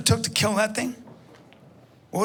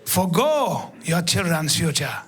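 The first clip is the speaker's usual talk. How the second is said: lightly voiced calm lower guide; a hint of a gentle Maasai guide lecturing; 3 semitones lower than usual.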